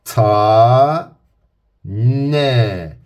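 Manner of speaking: "ta" and "ne" as two clear beats; separate syllables. Shown as a demonstration. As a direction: say "ta" then "ne" with a pause. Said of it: "Bakın önce heceleri söylüyorum". ("ta", "ne" hecelerini ayrı söyleyin)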